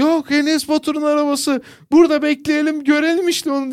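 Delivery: high-pitched mock tantrum; insisting child. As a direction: plead stubbornly in a high kid's voice. Çocuğun annesine tutturması anlatılıyor. (tiz sesle tutturan çocuk taklidi)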